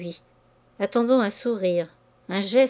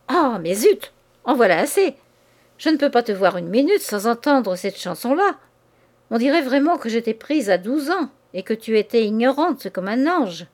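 louder, fed up and sharp; exasperated outburst; 2 semitones higher, 3 dB louder than usual. Acted. Man fed up with his mistress's complaints, exasperated outburst. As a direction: blow up, you've had enough. Lover loses patience, shouts.

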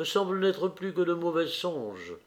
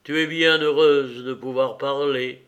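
louder, an emotional outburst; exclaiming; 6 dB louder than usual. Acted. Raphaël to Pauline, overwhelmed, exclaiming louder. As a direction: burst out with feeling. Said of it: "s'écria Raphaël".

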